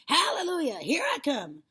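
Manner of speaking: high, loud triumphant cry; jubilant shout. A narrator's reading. Grandma rising through the house, jubilant shout. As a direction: belt it out in triumph. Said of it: "she shouted, finding her voice at last".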